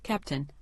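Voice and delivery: "Captain" in two syllables, weight on the first; "Captain" the English way, CAP strong, second syllable reduced; first-syllable stress. Shown as a demonstration. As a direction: stress the start of "Captain" and let the ending drop away. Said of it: "stressing the first syllable so much".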